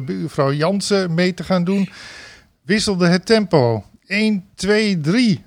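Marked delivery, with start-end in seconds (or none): 4.1-5.4 counting in call. Retold or imitated. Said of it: "riep de spreekstalmeester".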